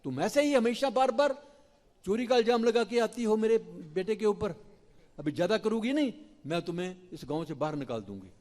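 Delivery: high, loud telling-off; Yashoda scolding. Acted. Yashoda scolds Prabhavati for false blame, loud high scolding. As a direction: threaten her out of the village. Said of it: "Yashoda मैया ने प्रभावती को डांटा".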